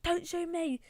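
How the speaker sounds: slightly squeaky mock pleading; squeaky gamer. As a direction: lightly imitate a high-voiced player. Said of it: "He's like a squeak".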